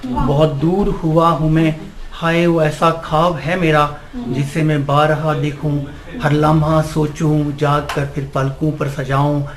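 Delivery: measured Urdu verse recitation; poem recitation. Acted. Amateur poet to a gathering, reciting his nazm.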